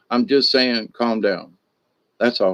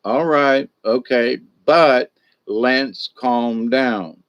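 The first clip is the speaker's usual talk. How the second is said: slowly settling a heated pair down; unhurried, soothing peacemaker stepping in; calm de-escalating. Shown as a demonstration. Peacemaker calming two people mid-fight, slow and soothing. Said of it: "You just be the calm one".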